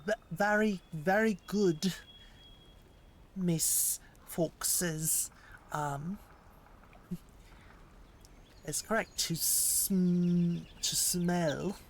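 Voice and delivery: put-on deliberate, theatrical American accent; stagey, halting American accent. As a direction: ham up an American accent, with pauses. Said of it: "It's a bit theatrical".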